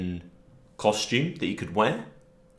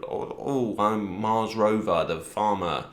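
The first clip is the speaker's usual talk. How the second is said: half-hearted West Country; 2 semitones higher, slower than usual. Retold or imitated. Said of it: "West Country accent".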